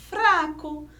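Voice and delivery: "fraco" with a light tapped R; trembling R. Shown as a demonstration. Teacher giving an example of the weak sound, trembling R. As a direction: say "fraco" with the tongue tapping the R. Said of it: "que o som treme".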